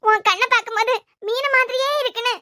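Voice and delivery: hammed-up funeral dirge; keen for the dead, unconvincingly; mock wailing lament. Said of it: "இப்ப செல்வம் அழுதா சிரிக்குதா". (நாடகத்தனமான ஒப்பாரி)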